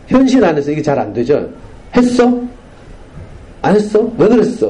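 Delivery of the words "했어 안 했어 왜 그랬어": imitating a parent firing off scolding questions, higher; mock nagging. Lecturer mimicking a parent interrogating a child, mock nagging. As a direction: rattle off the questions like an exasperated parent. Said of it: "계속 그냥 질책".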